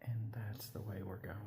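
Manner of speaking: hushed whisper in a creepy tunnel. Real, not acted. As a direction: whisper it, spooked.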